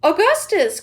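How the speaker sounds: high, loud call of a name; mother calling her son loudly. Acted. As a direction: call him from across the room. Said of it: "called out Missus Gloop".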